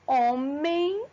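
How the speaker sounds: "homem" drawn out, ending in an I glide; final M as I. Shown as a demonstration. Teacher showing students the diphthong, final M said as I. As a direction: say "homem" with the last consonant sounding like I. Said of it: "eu tenho o som de I".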